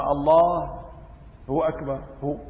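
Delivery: "الله" then a gap and "هو أكبر", halting; wrong pause with filler. Shown as a demonstration. Teacher shows the wrong takbir with a halting "هو" filler. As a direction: stop after "الله" and fill the gap with "هو". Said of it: "أما".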